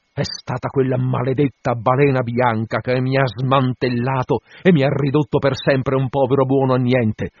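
impassioned captain's outburst; bitter cursing. Acted. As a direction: curse the whale with mounting anguish. Captain curses the maiming whale.

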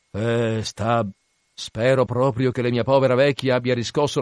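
lightly voiced sailor grumbling back; Flesk. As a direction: answer with a touch of rueful complaint. Voices Flesk answering Stab.

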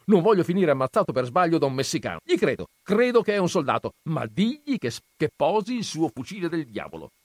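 high, loud, rapid outburst; alarmed, exasperated cry; frightened shouting. A narrator's reading. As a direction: shout it in a panicky rush. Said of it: "gridò".

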